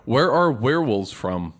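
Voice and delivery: measured, deliberate repeat of the question; slow repeat. Real, not acted. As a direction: spell the question out slowly, word by word. Repeats after listener says what.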